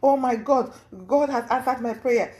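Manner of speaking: mildly hammed-up jubilant outburst; imitated excited shouting. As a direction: act out her overjoyed cry without yelling. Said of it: "And then she started shouting".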